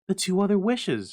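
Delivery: high, loud and rapid. Acted. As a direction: rattle it off urgently. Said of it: "she replied rapidly".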